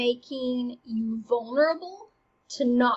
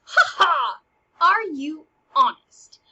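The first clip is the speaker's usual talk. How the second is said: louder, laughing mock challenge; 3 semitones higher, 8 dB louder, slower than usual. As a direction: taunt her with a laugh. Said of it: "Hamlet goes".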